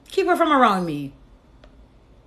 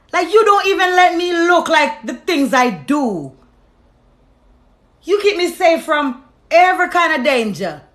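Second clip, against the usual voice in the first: slow, emphatic questioning building louder; emotional plea to God; 4 dB louder than usual. Retold or imitated. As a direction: plead with God, stretching the words, growing more forceful. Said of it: "when I get really emotional".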